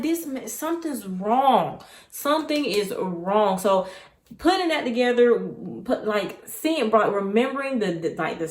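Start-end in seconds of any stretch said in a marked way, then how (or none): 0.0-3.6 slow, wary realization; uneasy. Retold or imitated. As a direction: let the dread sink in slowly. Realizing something is off.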